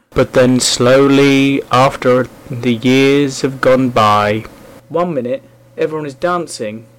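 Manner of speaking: hammed-up northern English accent; badly faked northern accent; terrible northern accent. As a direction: put on a bad northern accent. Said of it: "terrible accent there".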